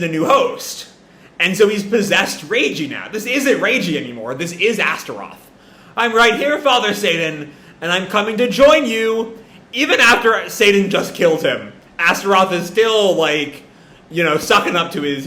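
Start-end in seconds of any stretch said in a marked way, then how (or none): 6.0-9.4 louder, higher eager declaration; eager call. Acted. Astaroth in Reiji calling to Satan, eager and loud. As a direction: reach up to the father eagerly.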